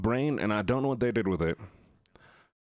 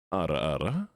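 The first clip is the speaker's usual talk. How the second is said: ara ara voice; 4 semitones lower than usual. Pretend. Anime ara ara redeem.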